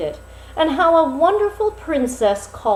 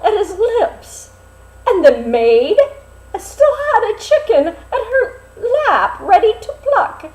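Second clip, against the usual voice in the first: laughing while reading; 10 semitones higher, 5 dB louder than usual. Real, not acted. Reader breaks into giggles mid-story.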